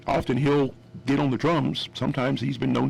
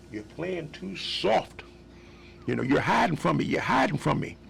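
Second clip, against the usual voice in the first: a singer's voice; 5 semitones higher than usual. Retold or imitated. The singer scolding the timid guitarist, lightly higher voice. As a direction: lightly mimic the singer calling him out. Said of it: "he turns around and goes".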